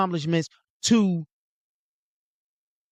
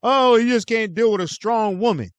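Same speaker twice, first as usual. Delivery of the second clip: mocking women's excuse; 5 semitones higher than usual. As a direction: drag it out in a sneering mock tone. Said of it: "So y'all could try to say".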